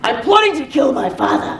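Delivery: loud villainous declaration; Tyrion. Acted. Coach and student trade Tyrion's plot, loudly. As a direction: announce the plot boldly. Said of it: "you're repeating after me".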